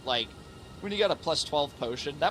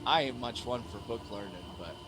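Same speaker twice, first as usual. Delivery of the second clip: put-on Southern accent. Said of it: "Southern accent commentary".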